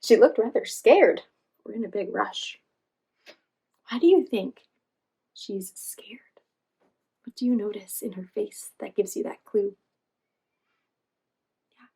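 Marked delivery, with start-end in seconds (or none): 3.9-6.2 whispered question. Real, not acted. Reader whispers question to children.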